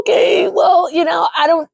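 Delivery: laughing high through the words. Retold or imitated. Host laughing while voicing Dre. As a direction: giggle through it.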